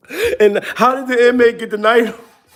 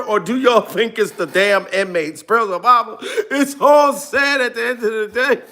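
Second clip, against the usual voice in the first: usual speaking voice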